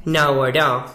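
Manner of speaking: naguará in a Caracas accent. Shown as a demonstration. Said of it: "con acento caraqueño".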